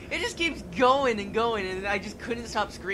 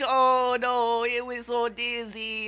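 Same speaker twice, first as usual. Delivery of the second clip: dizzy astronaut; 2 semitones higher, 5 dB louder, much slower than usual. Pretend. Astronaut after landing.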